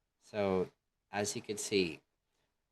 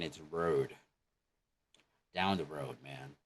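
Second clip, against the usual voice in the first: American accent; 4 semitones lower than usual. Shown as a demonstration. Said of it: "In American".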